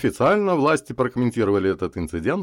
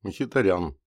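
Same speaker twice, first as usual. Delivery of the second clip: menacing broadcast from space; alien overlord; slower than usual. Acted. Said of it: "Зловещее послание с подозрительно странным акцентом".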